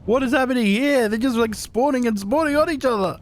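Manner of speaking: high-pitched, baffled outburst; bewildered reaction. Real, not acted. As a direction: react in disbelief to sudden chaos. Reacting to creatures spawning everywhere.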